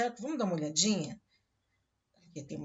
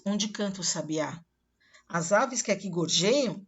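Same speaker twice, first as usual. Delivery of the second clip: solemn dramatic poem reading; poem recitation. Acted. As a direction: declaim it like a warrior's death song. Recites Canção do Exílio.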